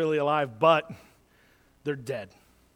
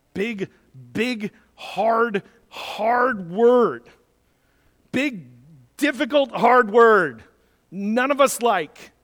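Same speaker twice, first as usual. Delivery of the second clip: emphatic preaching; 4 semitones higher, 5 dB louder, slower than usual. Real, not acted. Preacher warning of a word none of us like, emphatic preaching. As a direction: hammer each word, pitched higher.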